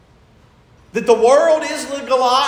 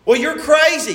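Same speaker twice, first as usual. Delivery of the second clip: loud mocking jab at the believer; scornful shout; 4 semitones higher, 3 dB louder than usual. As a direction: shout it as the world scoffing.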